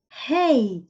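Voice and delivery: "Hey" with an audible puff of H; English "Hey", H aspirated, not silent. Shown as a demonstration. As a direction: breathe out the English H at the start of "Hey". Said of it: "o H em inglês tem esse som aspirado".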